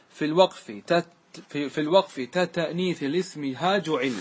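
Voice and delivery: slow, measured chant of the verse line; verse recitation. Shown as a demonstration. Teacher reciting the verse to the class, measured. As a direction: recite the poem line deliberately. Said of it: "ثم قال".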